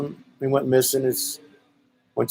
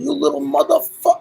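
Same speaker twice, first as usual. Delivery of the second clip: much higher, furious yelled curse; angry yell. Retold or imitated. Homeowner yelling at the boys on his roof, high furious yell. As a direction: yell it at the kids on your roof. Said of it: "And he yells".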